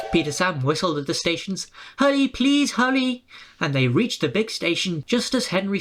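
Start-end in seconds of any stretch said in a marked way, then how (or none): 2.0-3.2 urgent hurry. A narrator's reading. Peter Sam urging himself on, higher call. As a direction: push them on, pleading. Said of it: "urging on".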